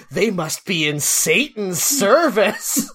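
slow, laughing mockery of a scandalized accusation; mock alarm. Mocking squares of the seventies judging a band, mock alarm.

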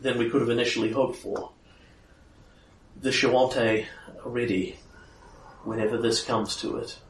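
low, soft grizzled vigilante; low gravel vigilante growl. Acted. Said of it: "more your vigilante voice".

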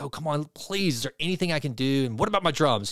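mildly pleading retold quote; lightly imitated begging; mock begging. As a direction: plead a little, as if retelling someone's begging. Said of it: "he's, like, begging".

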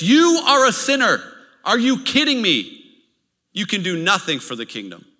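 a preacher voicing the enemy at full force; accusing shout. The enemy shouting accusations at believers, loud and scornful. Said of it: "He says this".

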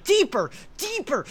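loud, high, frantic hypnotist; mock hypnotic shouting. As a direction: yell the trance commands. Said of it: "Michelle's using her most relaxing and hypnotic voice".

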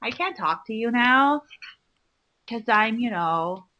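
lightly drawled mock valley girl. Acting a valley girl while cohost laughs, light mock voice. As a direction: play a bored shallow girl, half-hearted. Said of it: "I can't believe you're talking like this".

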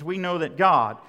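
GOD given firm weight, falling; stress on GOD. Shown as a demonstration. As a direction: put the emphasis on GOD. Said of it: "The emphasis is on God".

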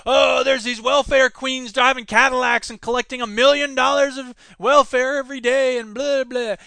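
loud mocking Reagan rant, pitch up; sneering welfare queens speech. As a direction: ham up a politician's scare story at full voice. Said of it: "Ronald Reagan originally said that".

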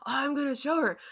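lightly mocked, high eager voice; imitating awkward Steven. Steven showing Layla the bag, lightly mocked eagerness. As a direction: pitch it up, mock-innocent.

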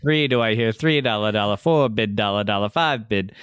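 auctioneer. Pretend. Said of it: "an auctioneer".

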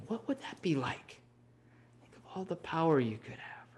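soft, breathy, sly whisper; tempting whisper. Retold or imitated. Devadatta tempts Prince Ajatasattu with power, in a sly whisper. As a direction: whisper temptation into his ear.

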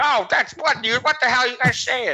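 high, baffled, startled reply; confused outrage. Retold or imitated. Imagining Evan's startled reaction to the whisper, high and baffled. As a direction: pitch it up like a shocked friend. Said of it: "or he'd be like".

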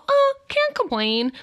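high, drawn-out mock "Oh, can't complain"; sing-song parody of a tired reply; mock glum reply. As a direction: parody a bored stock answer, slowly. Mimicking glum stock reply.

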